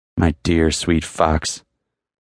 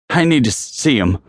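uncertain, raised thin voice; thin and reedy; 7 semitones higher than usual. A narrator's reading. Narrator asking to see his friend, thin and uncertain. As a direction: say it high and reedy, unsure. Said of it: "It came out thin and reedy".

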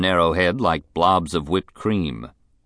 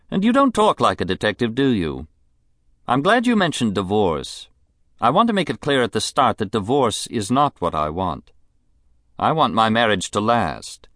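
high, languid society woman; a spoiled, bored rich lady; rich invalid wife; 3 semitones higher than usual. Acted. Mrs Sampson voice.

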